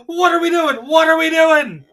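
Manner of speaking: high, loud mock outcry; mock shouting. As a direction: holler it out as a hammed-up viewer comment. Acting out chat comment as outcry.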